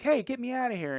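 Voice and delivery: retold cry for help. Kid in the movie yelling to be let out, high mock yell.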